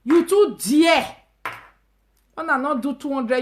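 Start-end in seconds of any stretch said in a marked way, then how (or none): 0.0-1.1 mock shout. Shouted reaction to price.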